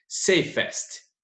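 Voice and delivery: "Safest" whispered under the breath; whispered word. Shown as a demonstration. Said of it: "Esse E S T já está indicando". ("Safest" sussurrado)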